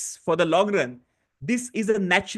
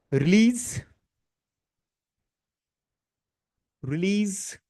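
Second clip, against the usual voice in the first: guided tapping affirmation; 3 semitones lower than usual. Shown as a demonstration. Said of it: "I'm just doing a little faster".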